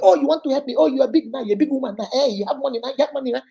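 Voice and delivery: mock jealous boyfriend jeering; sarcastic mockery. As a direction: sneer at her offer of help. Boyfriend sarcastically mocking her offer.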